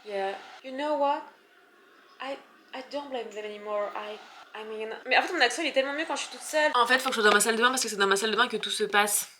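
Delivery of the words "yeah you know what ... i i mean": soft, hesitant mock-interview voice; interviewed actress. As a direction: play the forgiving star for a TV host. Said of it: "comme si je parlais à la présentatrice".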